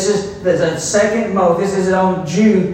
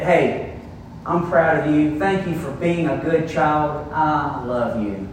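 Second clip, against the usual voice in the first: tender parent; 2 semitones lower, 4 dB quieter than usual. Pretend. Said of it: "go and tell them that".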